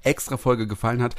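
slightly slurred tipsy speech; slurring. Real, not acted. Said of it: "ich lall schon".

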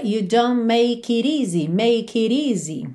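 "make it easy" run together as "may-ki-reezy"; "make it easy" as one joined word; words linked together. Shown as a demonstration. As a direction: link "make it easy" with a tapped T.

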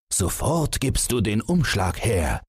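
high-pitched order without extra volume; restrained father's yell. A narrator's reading. Father demands envelope from son, high mild yell. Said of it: "der Vater schrie ganz unlogisch".

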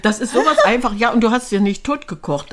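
laughing. Real, not acted. Laughs about easy recipe.

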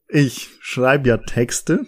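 slow, composed restart; slow and deliberate. Real, not acted. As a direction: regain composure, speak slowly. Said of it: "Um beim Punkt zu bleiben".

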